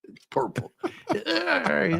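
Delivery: high giggly laugh through the words. Real, not acted. Teasing his friend about colors, laughing. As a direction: laugh it out, amused.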